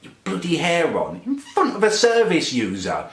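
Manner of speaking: mild mock-taunting imitation of his coworker; mocking sister. Coworker taunting him in front of a client, mock sneer. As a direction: lightly sneer it back as she said it. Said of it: "she says".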